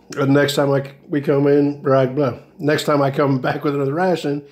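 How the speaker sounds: stumbling over the words; halting stammer, restarting the phrase; stuttering. Real, not acted. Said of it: "Sorry for stuttering through this one".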